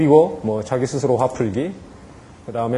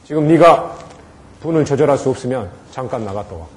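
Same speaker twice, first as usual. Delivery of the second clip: firm and decisive. Shown as a demonstration. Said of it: "분명하고 단호한 표정으로".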